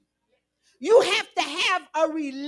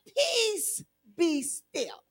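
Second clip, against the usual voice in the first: calm command; 7 dB quieter, much slower than usual. Retold or imitated. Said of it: "all God did was say".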